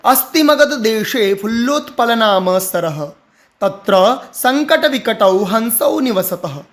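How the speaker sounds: flowing Sanskrit recitation with phrasing; sentence reading with expression. Shown as a demonstration. Teacher reads the passage as sentences, expressive. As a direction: read it as whole sentences. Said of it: "वाक्य के जैसे हाव भाव के साथ".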